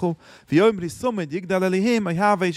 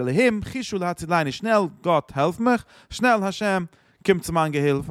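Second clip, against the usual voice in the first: urgent plea; 3 semitones higher, much faster than usual. Retold or imitated. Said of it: "עס איז ארגענט".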